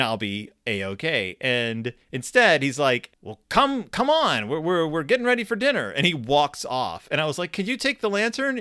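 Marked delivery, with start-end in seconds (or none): 3.2-5.9 high, raised hurried urging; impatient dad. Retold or imitated. Dad hurries son back to camp for dinner, high impatient urging. 7.5-8.6 high, small asking voice; pleading kid. Retold or imitated. Scared son asks dad to carry the buggy lantern, high pleading ask.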